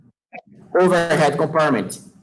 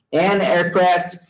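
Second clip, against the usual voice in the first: an aircraft said slowly and clearly; slow model phrase; much slower than usual. Shown as a demonstration. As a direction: spell it out slowly for the class. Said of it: "Tô usando o n porque". (modelo lento e claro)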